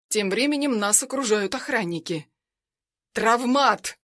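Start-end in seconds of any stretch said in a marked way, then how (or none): 3.1-4.0 growl. Acted. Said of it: "рычит Заур".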